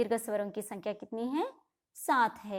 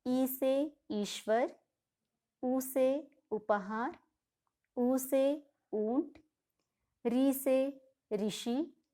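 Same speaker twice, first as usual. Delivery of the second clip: put-on very slow, each word spaced for children to follow; slow recitation; slower than usual. Shown as a demonstration. Teacher reciting a vowel word list to children, slow and deliberate. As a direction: read the list out slowly for young pupils.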